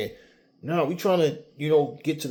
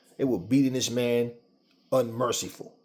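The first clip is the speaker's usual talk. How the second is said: plain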